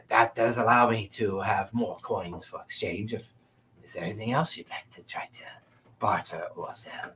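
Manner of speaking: merchant. Acted. Game master voices the merchant.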